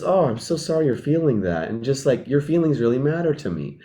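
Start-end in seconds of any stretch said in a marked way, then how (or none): 0.0-1.7 soft, tender sympathy, a touch quieter; empathetic. Shown as a demonstration. Comforting an upset friend, soft and sympathetic. 2.3-3.8 soft, heartfelt reassurance; sincere reassurance. Shown as a demonstration. Reassuring a hurt friend, soft and sincere. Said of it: "And like really expressing that".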